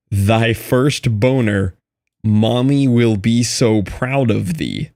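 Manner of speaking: slow, grand proclamation; dramatic reading. Acted. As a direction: intone it like old scripture. Reading achievement names dramatically.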